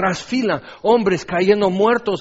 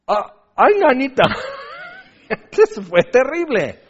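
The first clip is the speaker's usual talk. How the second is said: tag; 8 semitones higher, 4 dB louder than usual. Acted. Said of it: "Y tú puedes decir".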